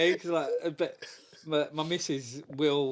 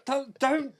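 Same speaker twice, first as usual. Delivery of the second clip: laughing dad voice; 8 semitones higher than usual. Retold or imitated. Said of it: "put my, on my dad voice".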